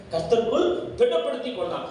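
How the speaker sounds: கர்த்தருக்குள் punched high and loud, fast; loud, high proclamation; proclaimed loud. Shown as a demonstration. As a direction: shout கர்த்தருக்குள் திடப்படுத்தி கொண்டான் to the church.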